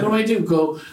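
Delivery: hammed-up alarm in the middle of the night; mock panic. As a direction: sound frantic at the absurd plan. Retelling panic about the burglar.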